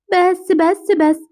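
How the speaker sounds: very slow, drawn-out soothing hush; shushing a baby. Acted. Big sister to crying baby, shushing.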